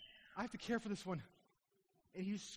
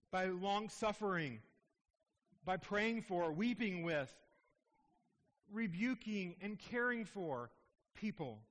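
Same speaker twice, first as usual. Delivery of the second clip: fervent, raised pulpit delivery; preaching; 2 semitones higher than usual. Acted. Pastor urging the church toward the powerless, fervent preaching. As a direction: press the call home like a pastor.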